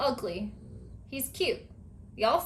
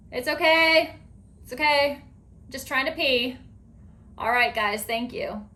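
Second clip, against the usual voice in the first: calling out; 3 semitones higher, 4 dB louder than usual. Retold or imitated. Calling to the household from the bathroom. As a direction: call out that all is fine. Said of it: "I'm like".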